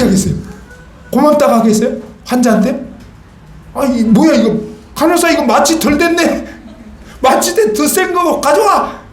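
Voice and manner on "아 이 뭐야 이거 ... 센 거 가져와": mock annoyed surgeon. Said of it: "그러면 찍소리도 못하게 해요".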